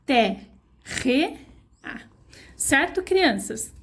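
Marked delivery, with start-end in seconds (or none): 0.1-0.5 "Terre" clipped off with the strong R; syllable demo. Shown as a demonstration. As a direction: sound out "Terre" as a separate beat. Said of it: "Quantas vezes eu abro a minha boquinha".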